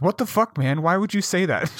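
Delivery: high-pitched mock outrage; indignant rebuke. Coworker throwing him under the bus, indignant rebuke. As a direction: act out a coworker calling you out.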